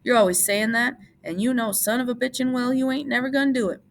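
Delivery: a hint of a sharp old woman; sharp aunt. A narrator's reading. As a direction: cut him off sharply. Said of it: "she said sharply".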